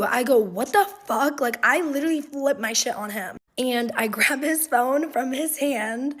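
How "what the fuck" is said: a touch of an outraged shout; mild mock yell of disbelief; retold outrage. Girlfriend reacting to the texts, mildly mock outraged.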